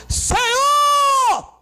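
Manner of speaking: high, drawn-out shout to heaven; crying out. Acted. Believer cries out to the Lord, shouting. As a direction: cry it out long and high. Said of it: "tu imagina tu gritar".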